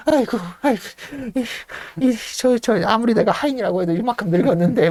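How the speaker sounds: put-on high, choking old-man whimper; mock-pained elderly butler; pained old servant. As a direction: gasp it out while being strangled. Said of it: "막 고통스러워하죠".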